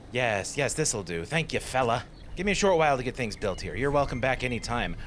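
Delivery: put-on builder thanks him with a light southern accent; a hint of a southern builder. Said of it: "I gave her a southern accent".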